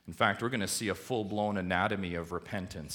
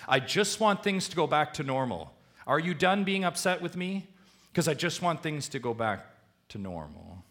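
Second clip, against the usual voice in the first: higher and louder, a whiny plea to move on; mock impatient apology; 8 semitones higher, 6 dB louder than usual. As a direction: play the self-serving sorry, wanting it over. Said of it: "the sorry that really just says".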